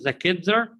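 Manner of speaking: put-on "kids are" fused into "kidzer", ending on a rise; words as one. Shown as a demonstration. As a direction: glue "are" onto "kids" as R. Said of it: "words as one word".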